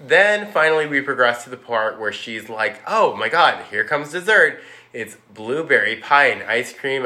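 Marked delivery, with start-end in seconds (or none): 2.8-7.1 higher, louder mock delight; mock gushing. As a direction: gush over dessert like a spoiled girl. Violet tasting dessert.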